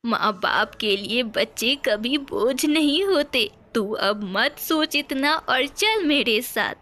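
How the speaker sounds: lightly voiced consoling granny; a hint of a kindly old mother; reassuring old mother. (हल्के से दिलासा देती बूढ़ी माँ)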